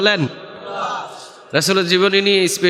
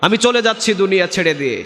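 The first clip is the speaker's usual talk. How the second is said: raised-pitch plea, retold; imitated dying cry; 6 semitones higher than usual. Preacher voices a second dying man begging, high imitated cry. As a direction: cry out high, then let the pitch fall. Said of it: "আরেকজন চিৎকার দিয়ে বলছেন".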